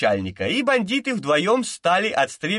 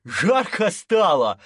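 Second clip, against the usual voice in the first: euphoric laughing; 3 semitones higher, slower than usual. A narrator's reading. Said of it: "эйфорически захохотал Томпсон".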